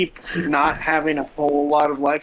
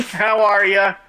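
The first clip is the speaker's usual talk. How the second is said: put-on Midwest accent; 5 semitones higher, 4 dB louder than usual. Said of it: "in a Midwest accent".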